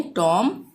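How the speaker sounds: टॉम ending on m, no b; teacher's clear टॉम with a silent B. Shown as a demonstration. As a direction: leave the final b off टॉम. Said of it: "तो बी को silent रखेंगे".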